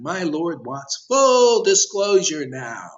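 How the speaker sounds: slow, loud proclamation; preaching shout. Acted. Preacher demanding disclosure from devotees, slow loud shout. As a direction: shout it out like a decree.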